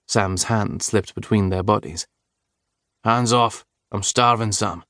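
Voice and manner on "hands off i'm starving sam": a touch of rough, mock-grumpy protest; gruff half-playful complaining; rough complaint. Lover pushes away wandering hands, mildly rough complaint. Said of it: "Declan complained roughly".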